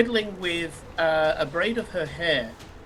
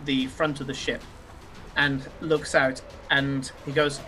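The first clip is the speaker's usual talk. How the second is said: game master narration; 4 semitones lower, slower than usual. A narrator's reading. Game master sets the scene.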